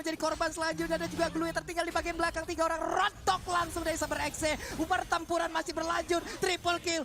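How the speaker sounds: rising play-by-play call; esports caster. Real, not acted. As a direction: call the fight live, building hype. Live play-by-play of teamfight.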